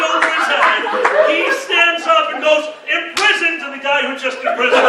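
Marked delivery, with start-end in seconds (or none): 2.9-3.6 high, loud call; hammed-up spell-casting cry; retold spell shout. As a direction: cast it with a yell.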